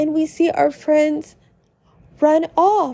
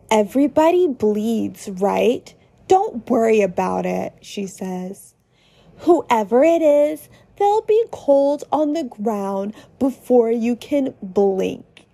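bloodthirsty Susie; 3 semitones lower than usual. Acted. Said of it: "with a bloodthirsty smile".

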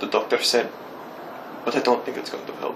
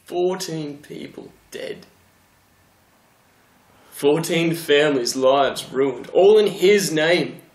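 slow bitter anger; 3 semitones higher, 4 dB louder, slower than usual. Acted. Bitter confession of deaths.

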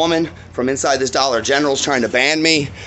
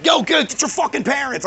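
retold screaming; 10 semitones higher than usual. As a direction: re-enact urgently yelling at a kid. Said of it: "I'm screaming at the kid".

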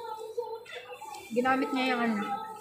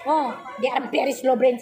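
mocking laugh; slower than usual. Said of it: "sinabi ko sa kanya".

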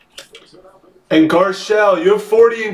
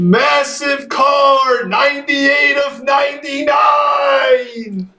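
high, stretched-out announcer yell; thrilled shout; 5 semitones higher than usual. Real, not acted. Breaker hyping the numbered card, thrilled shout. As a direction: draw out every word in excitement.

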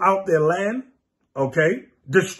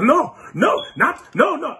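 mock denial; 7 semitones higher, slower than usual. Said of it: "He's like".

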